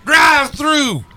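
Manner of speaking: stretched-out mock outrage; slow sassy drawl. Acting out the angry customer.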